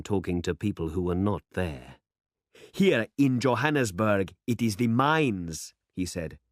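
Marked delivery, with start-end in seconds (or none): 2.7-5.7 building louder as he orates; growing louder. Acted. John holding forth to absent listeners, voice swelling louder. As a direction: let the speech swell, a touch louder. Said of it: "His voice grew louder".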